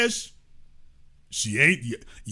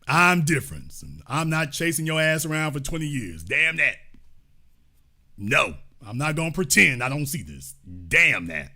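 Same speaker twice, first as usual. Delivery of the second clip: imitating Biden; 8 semitones lower, 4 dB quieter than usual. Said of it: "imitating Biden".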